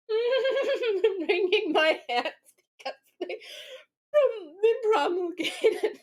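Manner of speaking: high, slow words dissolving into laughter; helpless laughter. Real, not acted. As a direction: try to explain while cracking up. Laughing fit over the article.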